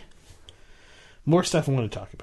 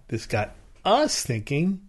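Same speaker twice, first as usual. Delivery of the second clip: us lifted, slow; stress on US; 2 semitones higher, 3 dB quieter, slower than usual. Shown as a demonstration. Showing emphasis games to a co-host. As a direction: hit the word us. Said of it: "the Q I people said".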